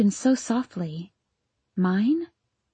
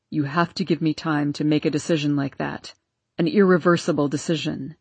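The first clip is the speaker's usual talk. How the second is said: Arden's voice; 6 semitones lower than usual. Acted. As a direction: lower male voice, pleading. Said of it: "the unmistakable voice of my husband".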